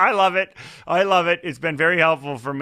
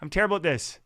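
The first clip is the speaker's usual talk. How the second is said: higher, exasperated inner whine; frustrated inner critic, pitched up; frustrated self-criticism; 5 semitones higher than usual. Retold or imitated. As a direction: berate yourself in exasperation. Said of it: "I'm going".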